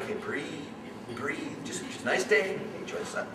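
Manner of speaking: soft self-soothing breaths; calming himself. Retold or imitated. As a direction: quietly talk yourself down. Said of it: "I'm just sitting there going".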